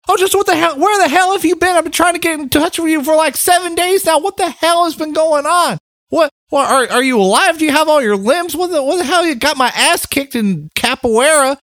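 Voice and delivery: a frantic friend on the phone in a bad Irish accent; attempted Irish accent. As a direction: rattle off panicked questions in a bad Irish accent. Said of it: "there are many reasons why I hate that accent".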